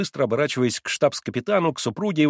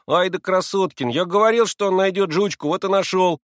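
high, loud excited praise; admiring cheer; 7 semitones higher, 4 dB louder than usual. A narrator's reading. Boy praising his friend, excited and admiring. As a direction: crow that you knew it all along. Boys cheering the found dog.

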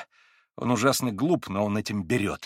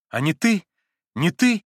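louder and higher, bursting out; unrestrained cry; 7 semitones higher, 7 dB louder than usual. A narrator's reading. Alyosha crying out to his brother, unrestrained. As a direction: cry out, unable to hold it back. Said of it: "неудержимо вскричал Алёша".

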